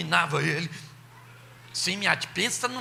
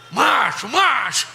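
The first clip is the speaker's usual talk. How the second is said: plain; 3 semitones higher, 5 dB louder, slower than usual. Shown as a demonstration. Preacher shouts macho, crowd.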